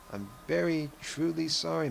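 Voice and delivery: lightly acted apology, pitched well up; earnest apology. Man apologizing to the evicted madam, mildly earnest and high. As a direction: plead a little, voice lifted high. Voicing the man's apology to widow.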